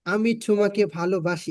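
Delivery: mock foreigner's Bengali accent; English-accented Bangla. Shown as a demonstration. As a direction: say it as an English speaker mangling Bengali. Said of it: "এভাবে বললে আমরা যেরকম হাসি".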